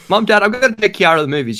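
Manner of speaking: high, sweet asking voice; sweet pleading kid. Retold or imitated. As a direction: ask mom and dad nicely. Pleading to parents, raised voice.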